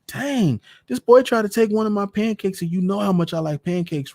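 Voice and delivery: put-on high excited kid voice, tattling; a little boy tattling on the phone to his mama; whiny boy. Boy tattles to his mother, high and whiny.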